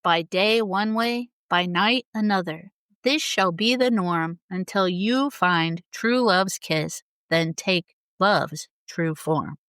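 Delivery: slow, solemn recitation of the curse; slow, lightly dramatic curse reading. Retold or imitated. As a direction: intone it like a fairy-tale spell. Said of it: "the beautifully dramatic curse".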